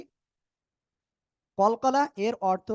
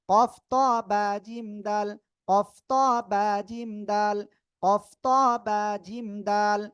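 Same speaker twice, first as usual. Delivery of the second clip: chant-like drill on a steady, held pitch; measured letter recitation; 4 dB louder than usual. Shown as a demonstration. Teacher giving the five letters to memorise, steady recitation. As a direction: recite each letter evenly for learners to memorise.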